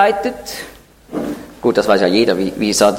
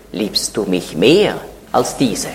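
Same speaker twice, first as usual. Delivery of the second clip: slow, lower, probing question; gentle slow question; 4 semitones lower, slower than usual. Retold or imitated. Jesus gently asks Peter before the disciples, slow and tender. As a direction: ask it slowly and tenderly, weighing each word.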